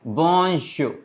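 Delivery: bonjour said softly and deliberately; teacher's careful "bonjour"; French pronunciation demo. Shown as a demonstration. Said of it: "How we write good morning in French".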